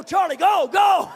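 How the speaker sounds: high, loud pressing; frightened boy urging the driver on; urgent plea. Retold or imitated. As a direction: beg him to keep driving.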